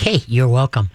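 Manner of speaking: low, easy dog voice; laid-back dog. Acted. Calm dog replies with a tail wag, laid-back. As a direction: answer low and relaxed. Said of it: "wag like".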